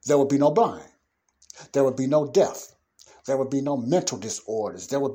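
loud, ringing preacher's proclamation; preaching loud. Real, not acted. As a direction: declare each promise loud to the congregation. Preacher proclaiming kingdom promises.

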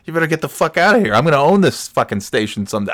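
mock-cocky trash talk; firing back. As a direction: give it right back, swaggering. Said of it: "giving it right back to him".

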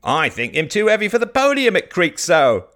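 heckling villager. Acted. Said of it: "cried Garth".

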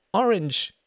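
put-on very high, loud child voice; little girl. A narrator's reading. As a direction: squeak it like a tiny child.

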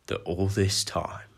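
very slow, building to a loud bellow on the last word; a giant bellowing at the uncle who lied; contained fury building to a bellow. Acted. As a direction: hold it in, then let it explode. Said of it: "his voice shaking with barely contained fury".

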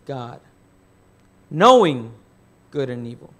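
preacher voicing the serpent's temptation, a hint of a snake. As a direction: draw the serpent's promise out slowly.

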